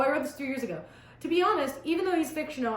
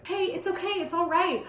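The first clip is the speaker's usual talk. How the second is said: higher-pitched reassurance at normal volume; cooing; 6 semitones higher than usual. A narrator's reading. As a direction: coo lightly to comfort someone. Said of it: "I coo".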